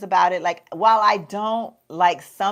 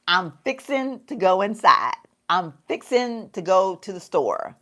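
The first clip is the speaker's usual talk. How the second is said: Southern phrasing. Shown as a demonstration. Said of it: "we will say".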